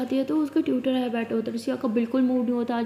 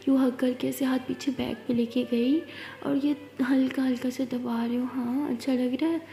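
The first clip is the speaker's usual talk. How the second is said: soothing hush; 4 dB quieter than usual. Acted. Narrated hug, hushed soothing.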